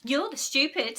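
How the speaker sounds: sharp retort; snapping. A narrator's reading. Margaret snaps back at Ralph. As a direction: snap it back fast. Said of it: "snapped moody Margaret".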